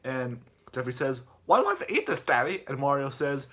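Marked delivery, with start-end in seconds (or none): 1.5-2.6 put-on high, louder kid voice; high-pitched protest to Daddy; whining kid character. Voicing Jeffy complaining to his dad.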